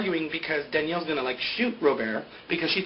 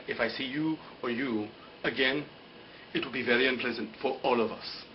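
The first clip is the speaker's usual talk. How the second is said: low, softened menacing warning; mock threat; 3 semitones lower, 5 dB quieter than usual. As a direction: imitate a grave parting threat. Acts out Sayid's parting threat.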